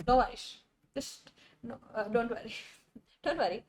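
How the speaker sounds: soft, gentle reassurance with a laugh; calm them down kindly; reassuring. Real, not acted. Reassuring a sleepy student.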